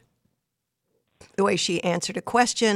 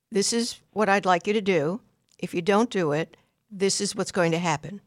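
said very calmly. Shown as a demonstration. Parent telling daughter the rule and consequence in advance, calm. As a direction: state the rule calmly, no heat. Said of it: "And it's said very calmly".

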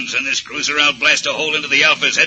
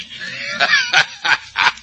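triumphant laugh. Acted. Villain gloats the trick worked.

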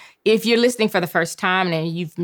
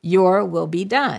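slow call to repeat. Shown as a demonstration. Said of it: "I need for you to say".

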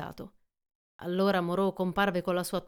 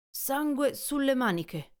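higher, slow, alarmed; Montgomery spotting blood on the sleeve; shocked exclamation; 6 semitones higher, slower than usual. Acted. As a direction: recoil at the sight of blood. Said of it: "esclamò".

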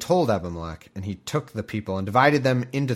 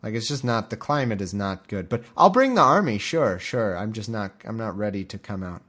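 mock reluctant voice. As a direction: squeal it out, then ramble nervously. Acted figure refusing to come out.

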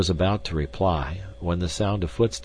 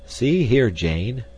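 loud, pitched-up blunt opener; 6 semitones higher, 6 dB louder, much slower than usual. A narrator's reading. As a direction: cut in bluntly, hard on the first words. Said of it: "he said bluntly".

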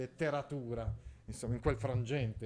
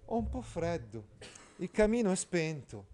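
lightly voiced Priscilla; 5 semitones higher than usual. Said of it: "e disse".

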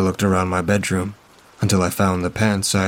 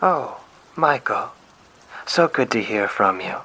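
warmly surprised to hear from him; pleasantly surprised; 3 semitones higher than usual. Acted. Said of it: "She sounded pleasantly surprised".

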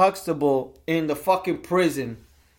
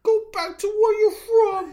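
much higher, whiny sneer; mock racist whine. Co-host mocking racists telling people to leave, high whiny voice. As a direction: whine it like a bigot.

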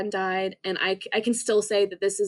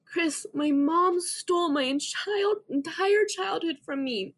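higher, slow, pleading replay of a yell; retold yelling; 7 semitones higher, slower than usual. To Chris during the fight, a higher mild retold yell. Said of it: "I was yelling at him".

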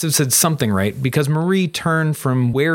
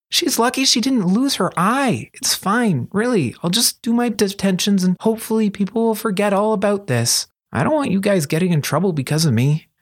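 higher-pitched, swooping character voice; Kuro, protesting; 8 semitones higher than usual. Acted. Thief talking his friends out of helping, high insistent protest. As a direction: argue it away, high and insistent.

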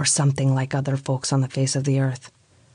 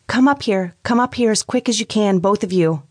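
frightened scream; 7 semitones higher than usual. A narrator's reading. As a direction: scream for help down the stairs. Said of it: "I screamed out".

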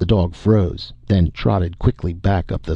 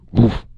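a single mock dog bark; dog woof; 3 semitones higher than usual. A narrator's reading. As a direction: woof like a wary hound. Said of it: "and went".

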